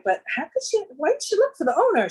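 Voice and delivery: high-pitched, incredulous questioning; retold indignation. Woman sees her lost earrings on a nurse, indignant high questioning.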